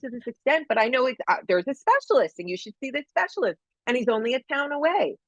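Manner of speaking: lightly voiced eager helper; eager helper woman.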